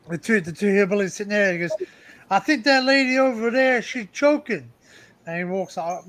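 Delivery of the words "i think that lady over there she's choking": put-on a light, higher-pitched hillbilly accent, said loud; a half-hearted hillbilly accent, hammed up a little. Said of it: "my accent's not very good".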